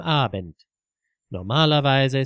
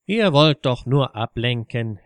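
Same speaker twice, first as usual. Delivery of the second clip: a mildly angry, grim retort, a bit louder; 4 dB louder than usual. Acted. Friend at the pub table retorts to his accusers, grimly angry. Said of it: "erwiderte Ludwig ergrimmt".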